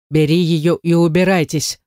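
ordinary delivery, nothing marked

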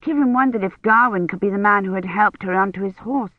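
plain reading voice

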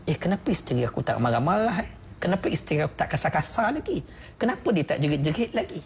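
lightly acted bewildered wondering; puzzled husband. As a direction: wonder aloud, mildly baffled by your wife. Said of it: "suami pun pelik".

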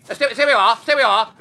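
loud, stammered warning; alarmed. Acted. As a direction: hold him off, tripping over the words. Bertie fends off threatening Tuppy.

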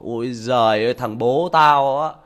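a hint of a scornful son, slowed; lightly voiced scornful son; mocking teen son. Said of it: "nó bảo".

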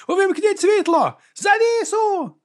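very high, slow panicked cry; panicked shouting. Acted. Clowns running onstage shout for lights, high and panicked. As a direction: shriek for the lights like a frantic clown. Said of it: "вигукуючи".

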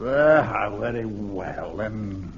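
low, soft, reluctant very well; grudging consent. Acted. Frazer reluctantly agreeing to help Jones, grudging and low. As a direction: give in with a dour sigh in the voice.

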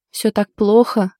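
slow question, a hint of suppressed laughter; trying not to laugh at her friend; holding back laughter. Girl asks friend about the burnt dinner, stifling a light laugh. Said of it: "сдерживая смех".

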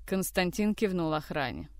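plain reading voice

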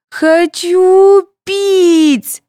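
put-on very high, loud, drawn-out child's whine; a thirsty toddler demanding; whining child. A narrator's reading. Sveta whining to her mother, very high and loud. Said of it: "заныла девочка".

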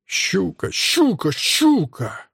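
high, squealed triple snigger; breathy hissed laugh, leaping up in pitch; gloating cackle. A narrator's reading. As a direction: cackle in three falling squeals. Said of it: "тыкает пальцем Ваню и ржёт".

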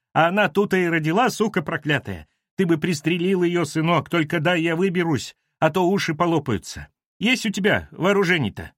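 high-pitched, plaintive urging; worked-up woman begging for help; agitated house manager. Acted. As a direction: wail out urgent orders in a high voice. Домоуправша требует пристрелить собаку.

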